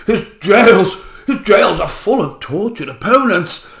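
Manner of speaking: a lightly put-on posh Boris Johnson voice; Boris Johnson impression. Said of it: "I'm not very good at doing a Boris Johnson impression".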